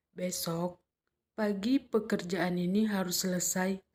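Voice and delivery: tune dropping toward "selesai"; falling intonation. Shown as a demonstration. Teacher demonstrating a falling tune, mother's order. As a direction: let "harus selesai" fall at the end. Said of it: "intonasinya menurun".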